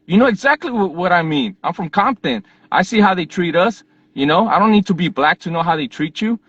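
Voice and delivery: arguing with a border agent, heated; heated retort. Retold or imitated. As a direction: push back at the agent, worked up. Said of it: "So I was fired up".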